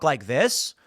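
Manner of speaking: "this" lifted like a question; upward inflection. Shown as a demonstration. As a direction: let "this" rise at the end as if unfinished. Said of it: "speaks with an upward inflection".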